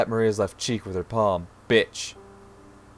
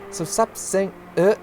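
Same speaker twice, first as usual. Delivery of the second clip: high scolding rising to a loud mimic; exasperated shouted order; furious mother; 10 semitones higher, 7 dB louder, much slower than usual. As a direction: yell at the child, mocking the whine. Mother yells at whining child.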